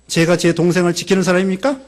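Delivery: 제가 제 동생을 지키는 사람입니까 said as a challenge, ending in a rising tone; defiant questioning tone. Shown as a demonstration. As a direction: talk back to God with 사람입니까 rising. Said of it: "하나님께 따지는 식으로". (하나님께 따지는 말투)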